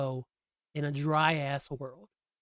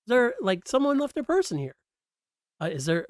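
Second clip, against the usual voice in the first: imitating Chit; 7 semitones higher than usual. Fumbling retelling of Chit's line.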